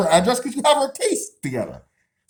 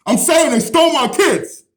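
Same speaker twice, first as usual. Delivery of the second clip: yelling through the glass; 2 semitones higher, 3 dB louder than usual. Real, not acted. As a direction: raise your voice to carry through glass. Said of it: "I gotta yell louder so you can be heard".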